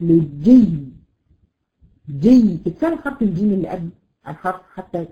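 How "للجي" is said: للجي with a loud, firm stop on the doubled ya; stressed stop. Shown as a demonstration. Teacher showing students how to stop on للجي. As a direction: clip للجي hard at the end. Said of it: "بتقول إيه؟".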